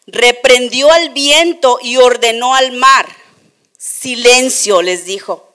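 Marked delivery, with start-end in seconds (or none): 3.8-4.8 slow, loud commanding Silencio; voice of authority. Acted. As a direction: command the storm to stop. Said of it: "con voz de autoridad".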